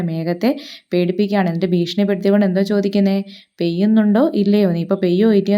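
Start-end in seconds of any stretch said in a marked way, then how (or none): 3.6-5.6 mock threat. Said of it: "ദേഷ്യപ്പെട്ട് ചോദിക്കുകയാണ്".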